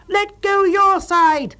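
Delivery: high, loud, very slow demand; loud, high, slow bellowed command; angry shout. A narrator's reading. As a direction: drag out the order furiously. Tent-pitching quarrel.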